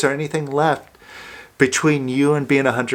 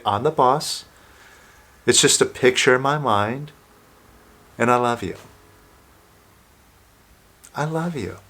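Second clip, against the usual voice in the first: gentle, softer affirmation, trailing quietly; tender self-affirmation; 3 semitones lower, 3 dB quieter than usual. Shown as a demonstration. Coach modelling an affirmation for listeners, gentle and tender. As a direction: say it to yourself like a loving promise. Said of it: "and say".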